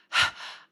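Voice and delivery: acted panicky breath puffs; mock hyperventilating. Acting out her inner panic to listeners, mock hyperventilating. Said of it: "I'm hyperventilating".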